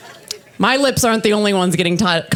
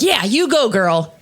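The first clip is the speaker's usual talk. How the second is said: mock cheering; 2 semitones higher than usual. Audience cheering her claim to beauty, mock encouragement. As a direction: imitate a supportive crowd cheering her on.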